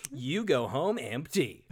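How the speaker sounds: "You go home empty" said slowly and evenly, falling on "home"; dry and slow, "You go home empty" landing down on "home"; deadpan sarcastic try. Shown as a demonstration. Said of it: "I honestly don't know".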